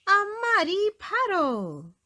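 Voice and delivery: high, loud and thrilled; overjoyed at a puddle; excited cry. A narrator's reading. Peppa spots a muddy puddle, thrilled.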